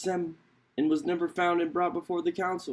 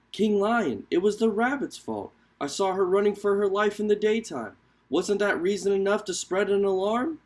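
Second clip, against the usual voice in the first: a lightly higher crow pleading its case; the big bird explaining itself to the king; lightly voiced crow; 4 semitones higher than usual.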